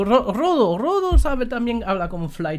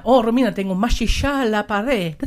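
Argentine-tinged quote; 3 semitones higher, 3 dB louder than usual. Retold or imitated. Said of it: "Yo dije a la Romina".

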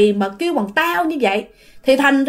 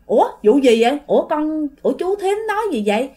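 higher-pitched puzzled questioning; acted baffled protest; bewildered neighbour; 4 semitones higher, faster than usual. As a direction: ask in mild confusion, innocent. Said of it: "cái chị này giống như là hoang mang".

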